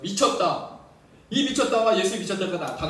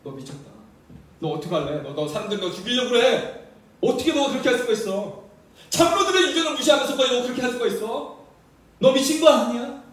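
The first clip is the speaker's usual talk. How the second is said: starts hushed, builds louder to an accusing shout; rising rebuke; 3 semitones higher, 4 dB louder than usual. Retold or imitated. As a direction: scold harder and harder. Relatives rebuking Jesus.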